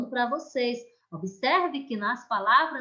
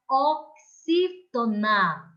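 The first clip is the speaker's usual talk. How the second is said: oxítona, slow and deliberate; teacher naming the term for the class; stress on XÍ; much slower than usual. Shown as a demonstration. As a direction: spell out oxítona slowly, leaning on XÍ. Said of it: "nós dizemos que essa palavra".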